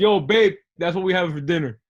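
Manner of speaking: loud call to babe, a bit fast. Real, not acted. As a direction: call out across the house to babe. Calling out to partner.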